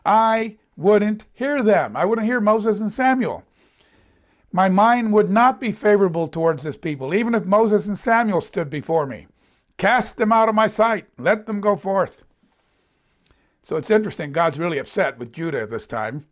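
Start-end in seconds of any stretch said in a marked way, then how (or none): 0.1-3.4 higher, deliberate refusal, mildly indignant; acted-out upset, held in check; upset God. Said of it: "He was so upset". 4.5-12.2 stern, lightly acted pronouncement; mild indignation in a quoted decree; upset God. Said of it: "He was so upset".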